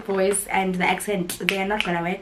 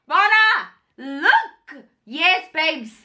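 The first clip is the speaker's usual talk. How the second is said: excited; 6 semitones higher, much slower than usual. Real, not acted. Shows her own name.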